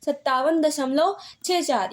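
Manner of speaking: slow "सत्तावन दशमलव छः चार", digits after दशमलव separate; decimal read aloud. Shown as a demonstration. Teacher repeating the example for students, slow and digit by digit. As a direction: take "छः चार" one digit at a time, slowly. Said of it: "ठीक है, ऐसे".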